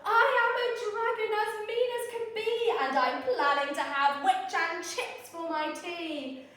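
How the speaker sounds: mean dragon boasting, lightly voiced; hint of a gloating dragon; menacing dragon. Dragon threatening the witch, a light mock menace.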